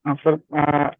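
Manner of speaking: harsh overdriven mic sound; clipping distorted mic. Real, not acted. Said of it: "आवाज फट रही है".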